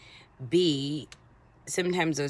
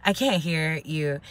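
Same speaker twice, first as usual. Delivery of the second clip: straining to hear; slower than usual. Retold or imitated. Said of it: "I can barely hear her".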